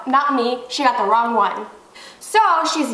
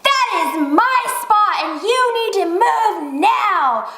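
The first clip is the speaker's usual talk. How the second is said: raised, indignant mock tirade; imitating angry doctor; 5 semitones higher than usual. Angry doctor ordering her out of the spot, mock indignant. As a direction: act out her bossy demand, high-pitched. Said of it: "she's just like".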